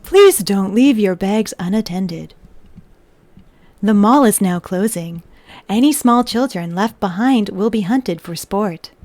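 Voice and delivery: deadpan loudspeaker calm over dark words. Retold or imitated. Mall announcer voice for a dark joke, calm. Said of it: "the calming voice that comes over loudspeakers".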